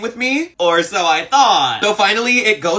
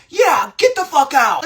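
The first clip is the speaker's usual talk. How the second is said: higher, slow mock yell from across the table; retold yell; 7 semitones higher, 3 dB louder than usual. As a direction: fling it after them, higher and drawn out. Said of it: "he wants to yell from the table".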